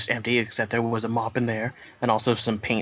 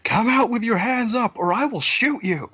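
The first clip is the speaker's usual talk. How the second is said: much higher, loud shouted warning; loud police warning; shouting through siren; 12 semitones higher, 4 dB louder than usual. Acted. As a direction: call out like a cop with a megaphone. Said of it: "and shouted".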